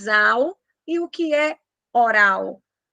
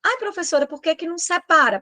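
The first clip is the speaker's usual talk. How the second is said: student question; 6 semitones higher, much faster than usual. Retold or imitated. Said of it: "student voice imitated".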